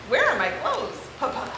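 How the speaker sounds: lively, expressive picture-book read-aloud; story reading for children. Acted. Teacher reading a unicorn book to her class, animated. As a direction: read it to the kids with wide swings in tone.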